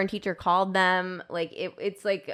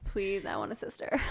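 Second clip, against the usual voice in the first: whispering; 6 dB quieter than usual. Pretend. Pleading for a sister jokingly.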